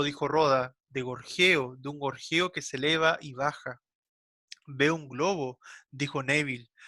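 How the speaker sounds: measured reading of a literary text; literary read-aloud. Acted. Teacher reads the novel's opening to the class, measured literary reading. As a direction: read it out phrase by phrase, with pauses.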